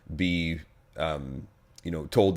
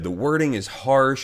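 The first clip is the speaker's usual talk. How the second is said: mimicking her; 6 semitones higher, 3 dB louder than usual. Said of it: "she got up and said".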